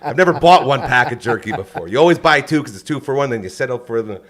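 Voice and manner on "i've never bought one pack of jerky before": laughing through the words; chuckling while talking. Real, not acted. Laughing defense of jerky buying.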